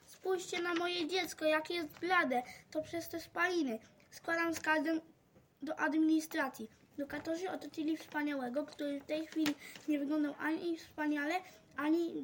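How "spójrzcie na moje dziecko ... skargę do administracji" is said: milk the drama as she complains; tragic voice. Acted. Dorota's mother making a hammed-up tragic complaint, growing louder. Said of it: "krzyczała tragicznym głosem".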